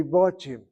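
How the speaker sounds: "Batim" with a rounded "o" in the first syllable; short-kamatz pronunciation. Shown as a demonstration. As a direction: say "Batim" as baw-TEEM. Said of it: "Maybe the pronunciation should be".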